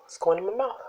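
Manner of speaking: whispering. Real, not acted. Mukbang whisper before a bite.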